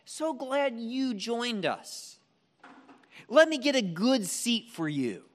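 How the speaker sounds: fawning welcome. Retold or imitated. Usher fawning over rich guest.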